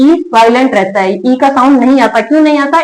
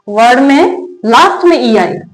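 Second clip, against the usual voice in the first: slow dictation. Shown as a demonstration. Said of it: "क्या लिखना है यहाँ पे?".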